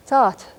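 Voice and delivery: Tsat said alone, ending in a whispered puff; whispered final vowel. Shown as a demonstration. Teacher repeats the word for good, Tsat with whispered ending. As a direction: end Tsat on a voiceless vowel after T. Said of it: "because you whisper it".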